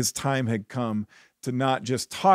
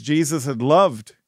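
loved drawn out and louder; stress on loved; 5 dB louder than usual. Real, not acted. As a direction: lean hard and slowly on the word loved. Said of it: "Cannot emphasize that word enough".

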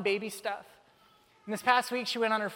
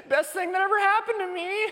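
strained laugh, much higher, louder; laughing sarcasm; 10 semitones higher, 4 dB louder than usual. Retold or imitated. Dad at the crowded gate, laughing sarcastically. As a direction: laugh through the stress sarcastically. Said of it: "I'm like".

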